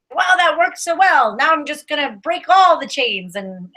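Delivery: a hammed-up rebellious sneer; sarcastic rebel voice. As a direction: act out a defiant rebel. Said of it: "you know, like".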